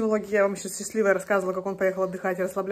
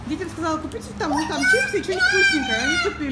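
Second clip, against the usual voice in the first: high-pitched laughing story; 11 semitones higher than usual. Real, not acted. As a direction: laugh while telling it. Laughing about kids' shopping.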